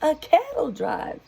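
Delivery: high, loud panicked warning; fireman screaming. Acted. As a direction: scream at the mayor to move. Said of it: "The fireman screamed".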